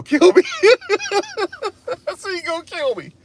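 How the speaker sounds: high voice collapsing into laughter; laughing plea. Real, not acted. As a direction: retell the plea while cracking up. Laughs at own retold plea.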